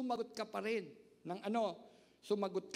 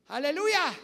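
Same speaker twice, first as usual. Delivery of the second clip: shouted praise, much louder; loud hallelujah; 5 semitones higher, 12 dB louder than usual. Real, not acted. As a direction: cry it out to the congregation. Preacher exclaiming praise. (malakas na sigaw ng papuri)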